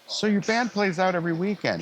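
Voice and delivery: voicing a businessman dad's probing question. Son retells dad asking about gigs, mock fatherly voice.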